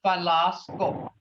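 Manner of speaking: Falasco with a short, blunt O. Shown as a demonstration. Teacher modelling the short O in Falasco. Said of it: "Remember the O, it's got that real short, blunt sound".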